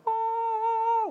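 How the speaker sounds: very high mock-angelic "oh"; airy "oh". Comedian mimicking flight crew's beautiful entrance, high mock-awed "oh". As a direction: sing out a high note of mock wonder.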